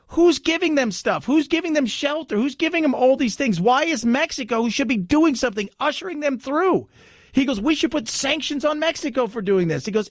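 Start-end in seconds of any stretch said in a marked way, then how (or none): 0.1-6.9 higher, exasperated run of questions; imitated mad. Mexican immigrant demands who is helping the migrants, imitated exasperation. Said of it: "he was mad because he had done it right". 7.6-9.8 retold indignation, raised pitch; imitated mad. Mexican immigrant argues for sanctions on Mexico, mildly mock-indignant. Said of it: "he was mad because he had done it right".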